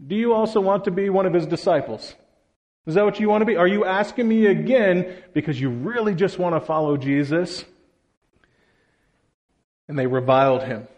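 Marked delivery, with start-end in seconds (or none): 0.1-7.7 higher, mocking questions, a bit fast; sarcastic. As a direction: needle them with mock innocence. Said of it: "responds sarcastically by saying".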